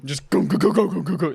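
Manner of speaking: imitated fart. Shown as a demonstration. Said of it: "That's what my fart sounded like".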